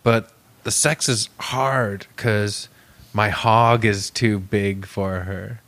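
slow, deliberate mock humble brag; imitating cool waiter. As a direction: drag it out like a boastful cool guy. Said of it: "But also was like".

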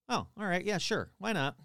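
offhand mock acceptance; mock casual agreement. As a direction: shrug it off as the imitated ghost. Retold ghost casually gives in.

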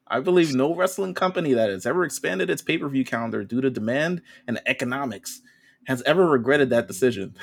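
light impression, swinging pitch, measured phrasing; Tony Khan. Co-host reads out a wrestling boss's comment, lightly imitated. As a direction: lightly put on an executive's statement voice. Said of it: "Should I do my Tony Khan voice?".

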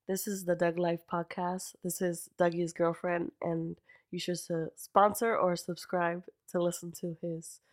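put-on slow, sweet little-kid voice. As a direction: say it like a five-year-old. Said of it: "You sound like a five-year-old".

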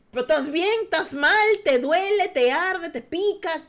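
ráfaga de preguntas más aguda y fuerte, alarmada. Retold or imitated. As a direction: hija en pánico interrogando a la madre. (hija alarmada preguntando a su madre en el hospital, más aguda y fuerte)

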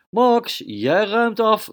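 high, loud call, then slow on jij ruimt af; a mother calling her son to clear the table; mother calls across the room, loud and slow. Acted. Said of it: "zo riep zijn moeder".

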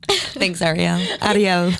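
lightly voiced cartoon crab; a hint of the Little Mermaid crab; Sebastian crab voice. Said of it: "You sound like the crab".

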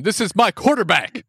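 high-pitched imitation of a triumphant yell; mock excited scream. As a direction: call it out high, like a player screaming off the field. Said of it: "Juju runs off the field screaming".

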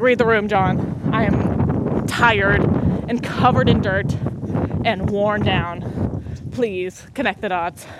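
slow, emphatic, drawn-out weary complaint; exasperated. Retold or imitated. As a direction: lay each complaint out slowly, hammed-up fatigue. Mock-scolding dad after hard work.

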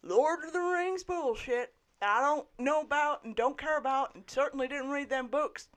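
put-on gruff toothless old man; gummed grumbling old barkeep. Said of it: "It's my old man voice".

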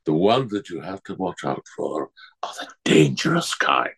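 breathy, hushed warning; spooky whisper. Acted. Old monster hunter warning the children, whispered. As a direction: lean in and whisper the secret. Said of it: "old monster hunter warning children".

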